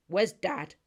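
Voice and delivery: loud, sharp demand; snapped. Acted. Brother snaps at his sister, asking for Dad. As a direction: bark the question at his sister. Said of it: "he snapped".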